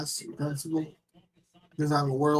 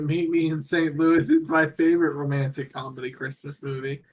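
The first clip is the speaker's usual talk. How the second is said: louder, clearer repeat; 4 dB louder than usual. Real, not acted. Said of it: "What was that?".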